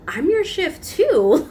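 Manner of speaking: high, drawn-out indignant retort; retold indignant yell. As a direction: protest in a mock yell, stretching the words. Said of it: "then I was yelling at her".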